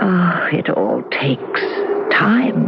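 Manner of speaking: slow, crying, drawn-out sigh of sorrow; tearful lament. Acted. Ghost sighing to David about time, tearful. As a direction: let the words break into a weep.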